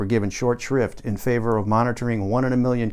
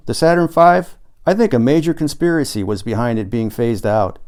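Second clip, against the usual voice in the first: insistent, louder conspiracy talk; Paul's conspiracy pitch; 3 dB louder than usual. Acted. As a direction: sell the secret with zeal.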